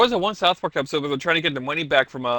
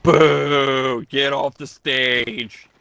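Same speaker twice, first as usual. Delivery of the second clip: loud heckling; 3 semitones lower, 4 dB louder, much slower than usual. Acted. Heckling the bad joke.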